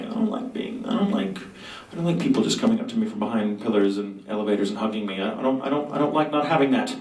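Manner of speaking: lightly put-on Sebastian voice, needy and theatrical; hint of a foreign accent, playing the needy actor; light mock Sebastian voice; Sebastian's voice. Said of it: "doing Sebastian's voice".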